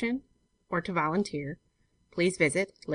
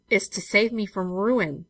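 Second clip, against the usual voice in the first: thick voice; 3 semitones higher, 3 dB louder, slower than usual. Acted. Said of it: "he said thickly".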